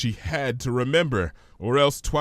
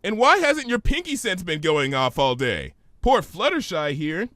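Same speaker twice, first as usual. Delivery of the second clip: higher, pointed questioning mare; Twilight's voice; 7 semitones higher than usual. Acted. Twilight demanding answers from Pinky, higher voice.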